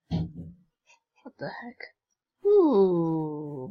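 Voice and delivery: slow puzzled whisper. Real, not acted. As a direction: breathe it out, slow and baffled. Confused by game event.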